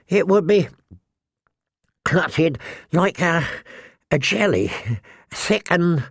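put-on high, halting, nervous boy. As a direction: stammer it out nervously. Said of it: "looked as if he was going to be sick".

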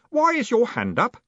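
high, innocent question; cheerful boy. A narrator's reading. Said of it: "said Stanley cheerfully".

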